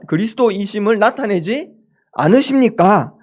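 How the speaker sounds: indignant disciple pressing Jesus, rising pitch; mock complaint, pushing for an answer; demanding protest. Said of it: "이렇게 요구를 하는 것 같아요".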